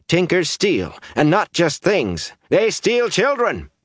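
high, slow, emphatic accusation; scandalized villager, pitched high; indignant accusation. A narrator's reading. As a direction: accuse them before the whole crowd. Days accusing Tinkers before crowd.

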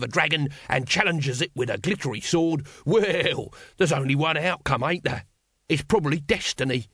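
salesman with a lightly voiced patter; street trader Throat. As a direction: wheedle like a chummy hawker. Throat argues with Vimes.

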